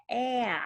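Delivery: "A" said as "aah", as in apple; short A. Shown as a demonstration. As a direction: give the short vowel "æ" for "A". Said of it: "the short sound is".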